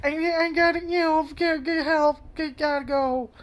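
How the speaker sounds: put-on a shy boy fumbling to get away; flustered high voice backing off from a woman; nervous stammer. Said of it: "he's too nervous and shy to say anything".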